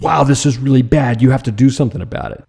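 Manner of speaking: hurried mock panic over something bad; alarmed urgency. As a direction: sound the alarm, half acted. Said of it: "not the same emotional intensity of".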